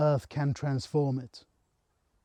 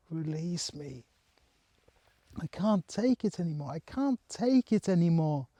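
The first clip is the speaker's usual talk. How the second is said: retold crying plea; 4 semitones higher than usual. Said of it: "crying, and putting everything into words".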